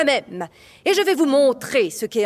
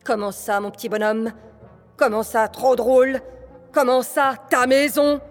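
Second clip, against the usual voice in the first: king's temper building to a shout; rising anger; 4 semitones higher than usual. Acted. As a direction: let the anger climb with each question. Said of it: "sentit la colère monter en lui".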